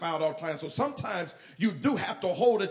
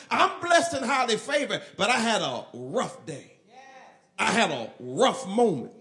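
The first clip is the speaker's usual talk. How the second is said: louder, opening up about a rough day; honest confession; 4 dB louder than usual. Retold or imitated. A churchgoer owning up to a hard day, louder and open. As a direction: admit it out loud, no church face. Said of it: "Christians that'll just tell the truth".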